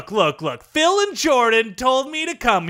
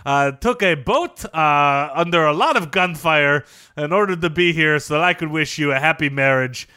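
character voice; 4 semitones lower than usual. Acted. Luis Fernandez character voice.

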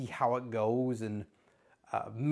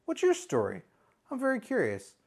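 much higher, bright-toned invitation to the couch; cheery inviting uncle; 10 semitones higher than usual. Retold or imitated. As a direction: beckon the kids over eagerly. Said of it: "And then you say".

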